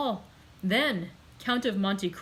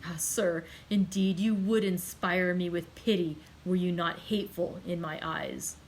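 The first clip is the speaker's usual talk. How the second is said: rising anger and reproach; 2 semitones higher, 3 dB louder than usual. Acted. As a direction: build the blame against him. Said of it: "with increasing anger and reproach".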